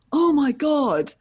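slow, high, loud "Oh my God"; drawn-out awed gasp at meeting her; starstruck gasp. Retold or imitated. Fan stunned to meet Izzy, slow high gasp. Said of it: "And he went".

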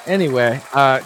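high, mock Biden voice; squeaky doddering old president; hammed-up Biden; Biden impression. Biden sign-off.

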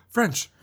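sharp gasp before a high squeaky French; gasp then French. Pretend. Goofing on the French joke, gasp and squeak. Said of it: "frog in my throat".

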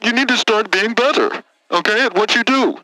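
condescending lecture. Acted. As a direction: lecture him like a child. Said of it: "Linus Vanderbilt the fourth".

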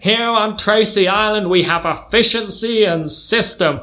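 slow, lecturing American patriarch; American accent. Acted. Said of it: "gonna have to do an accent".

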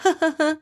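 high, short imitated laugh; light mock laugh. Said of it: "tries to make light of it".

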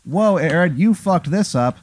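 high-pitched, swooping character voice; alarmed bus driver. Acted. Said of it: "And he goes".

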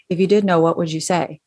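casual, sarcasm-free question; even and neutral, open to any answer; elevator tone. Shown as a demonstration. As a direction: ask it like small talk with someone in an elevator. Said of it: "like you're talking to someone on the elevator".

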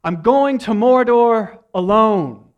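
high, loud, slow and resolute; hammed-up Frodo line; dramatic Frodo. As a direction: declare it like a hero leaving. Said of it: "and he says".

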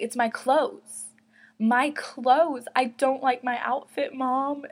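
lightly hammed-up protest to mom; retold childish insistence, pushing the excuse; insistent kid's excuse.

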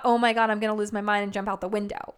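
fast, panicky mock freak-out; frantic. Stressed mom near breaking point, fast and frantic. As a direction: rush it like you're losing it.

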